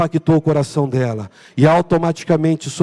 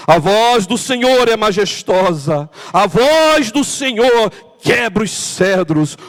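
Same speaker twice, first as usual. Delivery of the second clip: majestic psalm reading; slower than usual. Shown as a demonstration.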